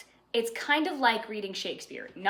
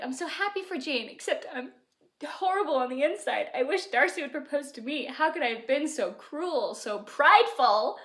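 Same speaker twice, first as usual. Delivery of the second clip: high, mock dramatic lament; pining Elizabeth; 5 semitones higher than usual. Elizabeth wishing Darcy would propose, hammed-up longing. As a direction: overplay the regret, lightly.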